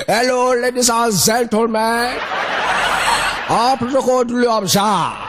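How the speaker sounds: mock Ijaw speech. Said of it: "That's how Ijaman dey talk".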